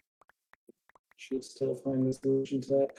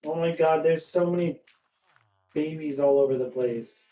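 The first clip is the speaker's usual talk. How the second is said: excited; 2 semitones higher, 6 dB louder than usual. Real, not acted. Surprised at babies everywhere.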